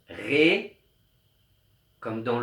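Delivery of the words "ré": la note ré said slowly, ré held. Shown as a demonstration. Teacher naming the note ré slowly for pupils. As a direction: draw out the note ré. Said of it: "On entend aussi".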